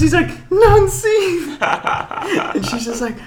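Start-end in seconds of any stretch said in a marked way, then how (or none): 0.5-1.6 very high, loud mock trainee cry; squeaky, hammed-up read-out; trainee reading aloud. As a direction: squeal it like a clueless recruit reading out. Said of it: "he's reading it off the sheet".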